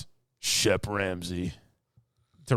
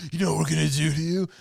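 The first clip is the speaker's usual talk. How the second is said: mock thug threat; 6 semitones higher, 3 dB louder, faster than usual. Thugs threaten Hogan.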